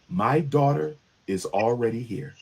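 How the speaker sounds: emotionless, deadpan report; flat, no emotion. Retold or imitated. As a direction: say it with no emotion at all. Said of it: "with no emotion at all".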